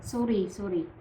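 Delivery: "sorry" in a hard, tough Bisaya accent. Shown as a demonstration. Teacher repeats the adopted English term, Bisaya accent. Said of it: "So that's the accent".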